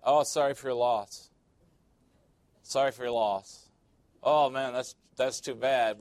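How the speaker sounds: mock condolences in a mild white-guy impression. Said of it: "that's my white guy voice".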